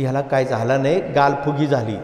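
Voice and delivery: un anciano apenas insinuado, voz más grave; old man voice. Retold or imitated. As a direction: imita de forma ligera a un viejo del pueblo, más grave. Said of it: "तो म्हातारा म्हणाला".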